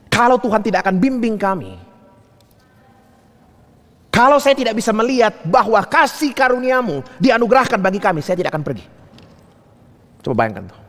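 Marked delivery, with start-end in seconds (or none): 0.1-8.8 raised, fervent preacher's plea; impassioned preaching. Acted. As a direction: preach it as a bold plea to God.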